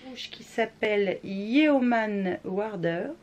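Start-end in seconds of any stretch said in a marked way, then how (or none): 1.2-3.1 bad English accent. Shown as a demonstration. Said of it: "j'ai un accent pourri".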